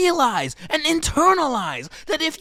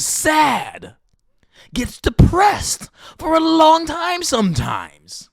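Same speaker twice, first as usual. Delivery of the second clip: crying out; 2 semitones higher, slower than usual. Real, not acted. Crying while ranting.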